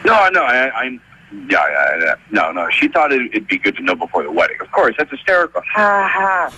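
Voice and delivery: slurring into the phone. Real, not acted. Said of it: "sultry his voice gets".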